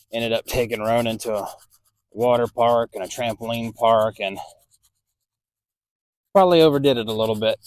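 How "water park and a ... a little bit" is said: strained, groaning from back pain; grunting and groaning. Real, not acted. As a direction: push the words out through a sore back. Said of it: "I apologize for the grunting and groaning I'm doing right now".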